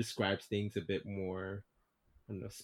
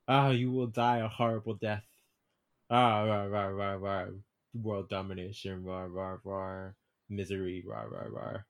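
lightly voiced villain rant; mock megalomaniac rant, fading; villain monologue; 3 dB louder than usual. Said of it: "spouts typical villain, villain monologue".

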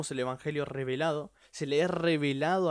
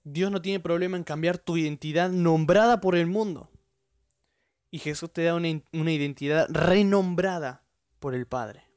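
preaching peak; 6 dB louder than usual. Real, not acted. Preaching climax.

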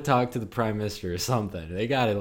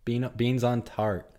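put-on British accent; 2 semitones higher, slower than usual. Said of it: "you're doing a British accent".

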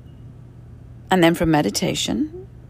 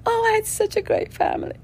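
mock naive cheer; 13 semitones higher than usual. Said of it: "I was like".

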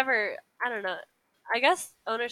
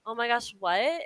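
higher, louder mock-thrilled Ella; acted excitement; 4 semitones higher, 4 dB louder than usual. Ella learns she may go to the ball, acted excitement. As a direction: play delighted surprise, lifting the pitch.

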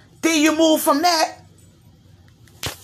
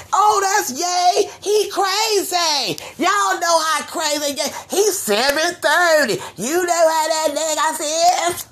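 dismissive bystanders; 4 semitones higher, slower than usual. Retold or imitated. Mocking people excusing a rapper.

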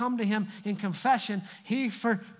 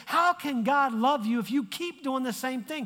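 accusing enemy; 4 semitones higher than usual. Retold or imitated. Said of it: "the enemy comes in and says".

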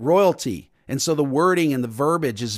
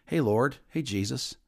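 casual greeting; 4 semitones lower, 6 dB quieter than usual. Shown as a demonstration. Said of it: "talk to Jesus".

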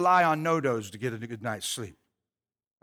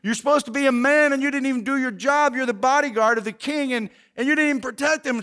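mild mock yell, higher pitched; retold screaming; 6 semitones higher, 3 dB louder than usual. David berates the sleepy bodyguard, mild mock yelling. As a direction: rattle off a scolding with raised pitch. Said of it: "this guy's screaming at him".

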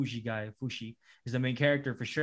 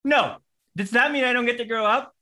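put-on high, louder childlike plea; a hint of a scared little girl; little girl pleading; 9 semitones higher, 5 dB louder than usual. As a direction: mimic a small girl begging not to die. Little girl learns she'll be sacrificed.

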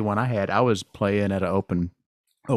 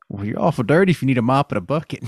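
laughing; 5 semitones higher than usual. Real, not acted. Joking while laughing.

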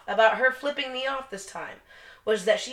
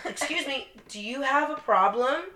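calm retold question; 4 semitones higher, 3 dB quieter than usual. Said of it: "I said".

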